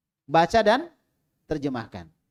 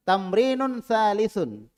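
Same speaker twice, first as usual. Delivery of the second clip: slow teaching demo; 5 semitones higher, 4 dB louder, much slower than usual. Shown as a demonstration. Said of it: "Latihan yang ke".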